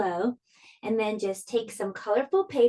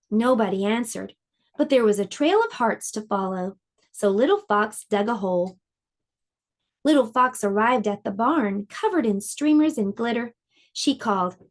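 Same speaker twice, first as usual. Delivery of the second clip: gentle storybook read-aloud; lively storybook narration for little listeners; reading to children. A narrator's reading. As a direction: tell it like a bedtime picture book. Reads picture book to children.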